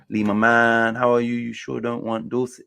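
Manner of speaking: lightly imitated New York accent; a touch of New York in the greeting. Streamer acting out a message to Lee, light New York accent. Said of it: "his New York accent".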